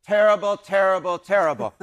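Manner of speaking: lightly mimicked Charles Barkley, each word punched; a hint of Barkley's emphatic repeated verdict; mild Barkley impression, repeated for comic effect; Charles Barkley quote. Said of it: "to quote our dear friend, Mister Sir Charles Barkley".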